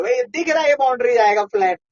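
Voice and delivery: high-pitched disbelieving protest; excited protest. Real, not acted. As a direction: argue it's not out, pitch up. Arguing it's not out. (उत्तेजित विरोध)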